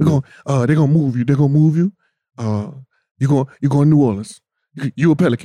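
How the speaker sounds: rapid-fire, fast talking. Retelling Ty's phone call, imitating Ty's fast talking. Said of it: "he talk all fast".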